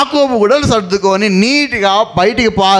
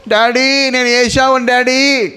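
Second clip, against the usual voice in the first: Jacob lightly mimicking Esau, pitched up, slow; playful put-on voice, a touch higher; mock imitation of brother; 6 semitones higher, slower than usual. Jacob fakes his brother's voice to fool blind father, lightly mimicked. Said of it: "ఈయనేమో mimicry చేయాలా".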